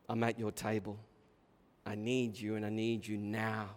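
low, hushed, earnest appeal; earnest plea. Acted. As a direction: plead quietly and sincerely. Preacher voices the woman's earnest plea.

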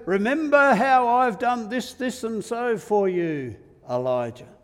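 loud, high scolding, easing on the name; hammed-up shouted telling-off; mock rant. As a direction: rant as a reproachful God, at full volume. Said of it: "There's no rant".

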